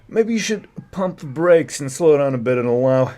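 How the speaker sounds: lightly voiced witness reading; a hint of an official quoting; reading as Craig Abrams. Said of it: "I'll be Craig Abrams".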